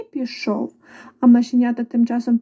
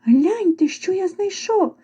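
higher, lively show-off call; rooster calling out; 7 semitones higher, slower than usual. A narrator's reading. Rooster showing the mice what he found, calling out. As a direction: call them over to look. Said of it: "покликав півник".

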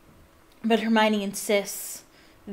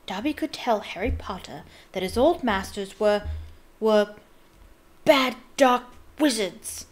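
daring house elf; 4 dB louder than usual. Acted. Dobby daring to speak.

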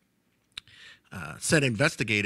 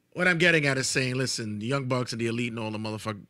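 ranting; 4 dB louder, much faster than usual. Acted. Ranting promo.

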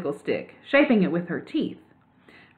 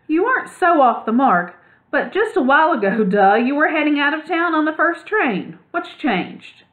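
higher, louder teasing with a laugh in it; 8 semitones higher, 4 dB louder than usual. Acted. Clutch teasing Ragweed about leaving town, laughing. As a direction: needle him playfully.

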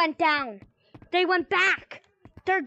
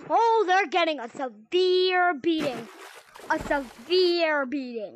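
threatening; slower than usual. Acted. Angry parent threatens the kids.

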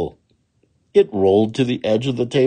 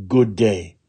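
polite. Acted. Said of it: "very politely".

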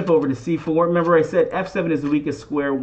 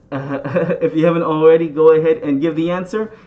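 laughing through the retake; chuckling as he restarts the line; 5 dB louder than usual. Real, not acted. Laughs restarting the viewer prompt.

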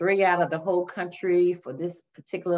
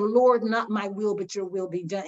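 sincere surrender. Shown as a demonstration. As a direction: pray it and really mean it. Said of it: "there's a difference between saying".

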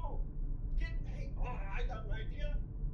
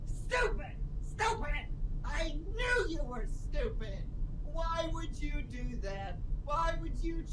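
mock angry shout; slower than usual.

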